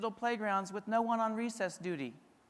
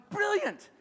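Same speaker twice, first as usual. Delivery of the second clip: much higher, delighted realization; a lightbulb moment, high and bright; impressed brilliant; 10 semitones higher, 3 dB louder than usual. Retold or imitated. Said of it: "I'm watching this and going".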